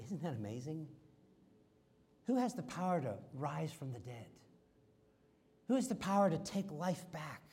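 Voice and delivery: hushed amazement at the resurrection; awed wonder. Acted. Preacher marvelling to the congregation, softly awed. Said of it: "I almost just wanna stop there and say".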